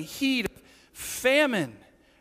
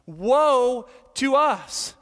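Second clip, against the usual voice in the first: woe drawn out, very slow and louder; slow lament; 4 semitones higher, 5 dB louder, much slower than usual. Shown as a demonstration. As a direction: press each word like a confession. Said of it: "we don't use the word woe".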